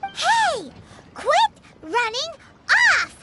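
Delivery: put-on loud call after a runaway kid. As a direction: shout to stop him running off. Calling after running child.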